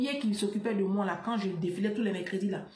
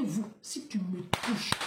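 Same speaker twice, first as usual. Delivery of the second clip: whisper; 4 semitones lower, 7 dB quieter, slower than usual. Retold or imitated. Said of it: "Il dit".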